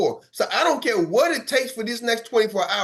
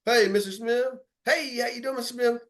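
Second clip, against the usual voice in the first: eager greeting; 5 semitones higher than usual. Shown as a demonstration. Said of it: "some of y'all can go like this".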